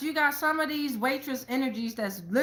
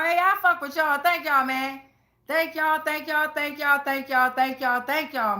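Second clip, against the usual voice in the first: excited thanks; 4 semitones higher, 4 dB louder than usual. Real, not acted. Thanking viewers at the end.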